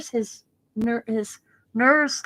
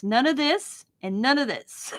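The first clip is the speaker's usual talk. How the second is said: laughing imitation; 4 semitones higher than usual.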